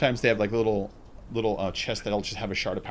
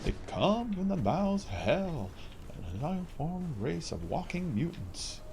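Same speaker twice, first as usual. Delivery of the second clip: trailer voice; 5 semitones higher, 6 dB quieter than usual. Pretend. Dramatic movie-trailer narration voice.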